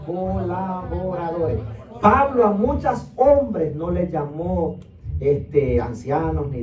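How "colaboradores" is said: slow for repeating. Shown as a demonstration. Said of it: "Diga conmigo".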